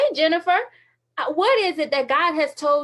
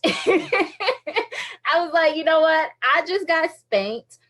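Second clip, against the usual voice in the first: laughing; 4 semitones higher, much slower than usual. Real, not acted.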